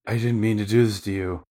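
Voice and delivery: sudden loud cry of "Brother", then a pleading plea; voicing a horrified henchman; anguished cry. Fisherman apologizing to his brother in horror, loud pained cry. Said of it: "He's like, gasps".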